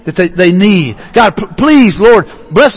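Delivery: earnest, measured plea to God; lightly acted begging, lingering on each "please"; pleading prayer. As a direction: plead gently on someone's behalf. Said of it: "I see someone almost begging, pleading".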